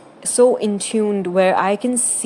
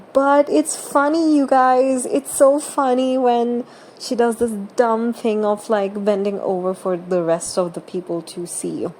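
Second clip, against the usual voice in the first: mock amusement; 3 semitones higher than usual. Mocking people who excuse objectification as humor, mock amusement. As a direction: put on their it's-so-funny defence, pitched up at first.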